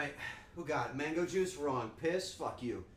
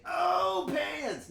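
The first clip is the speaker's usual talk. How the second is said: high, loud shout from the belly; gut shout; 13 semitones higher, 7 dB louder than usual. Shown as a demonstration. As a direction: yell pans from the gut. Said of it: "You have to say it with your gut".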